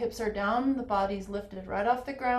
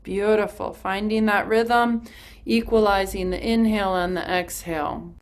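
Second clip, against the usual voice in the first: talking over forceful breath of fire; loud, pumping breaths through speech; rapid nasal breath pumps; 10 dB louder than usual. Shown as a demonstration. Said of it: "And we come to breath of fire".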